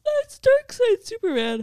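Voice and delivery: high, loud, slow insistence; emphatic. Real, not acted. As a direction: spell it out firmly.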